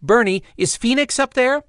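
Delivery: high, loud urgent shout upward; shouted call. Acted. Evol shouting to Bernie in the sky, loud and urgent. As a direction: call up to the griffin high overhead. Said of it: "She shouted mind to mind".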